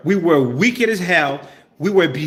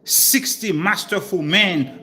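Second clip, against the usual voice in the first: poetic scripture reading. Acted. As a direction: intone each phrase, pausing between them. Reads poetic scripture one more time.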